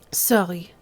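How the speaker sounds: put-on Sorry said as sɑli, r turned to l in the wrong accent. Speaker apologises to the lieutenant in the wrong accent. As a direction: slip into the other character's accent on Sorry. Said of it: "Oops, wrong accent".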